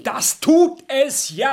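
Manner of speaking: loud, slow, high-pitched retort; exasperated shout; shouting back. Acted. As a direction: yell it back at her. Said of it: "Schrei mich bitte nicht so an".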